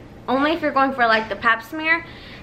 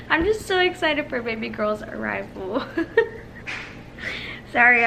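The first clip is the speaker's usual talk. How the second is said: tearful laugh breaking into the words; real happy tears, voice giving out; happy crybaby; 3 dB quieter than usual. Real, not acted. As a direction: get choked up, then laugh an apology. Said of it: "I'm such a crybaby".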